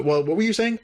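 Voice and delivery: high, acted question; retold prompting. Crewmate inviting the interrupted cadet to continue, high mock prompting. Retold resumed exchange, hammed up.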